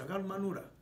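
ordinary talk

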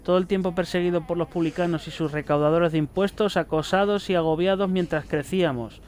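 a prophet's testament read out evenly; solemn note reading. Acted. Player reading a prophet's note aloud to viewers, solemn reading. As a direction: read it like scripture, steady and grave.

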